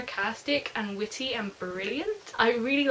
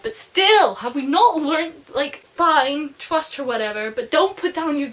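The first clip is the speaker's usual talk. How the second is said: higher, louder frustrated outburst; exasperated rant; 4 semitones higher, 6 dB louder than usual. Real, not acted. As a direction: vent at the foolish hero. Frustrated rant at careless character.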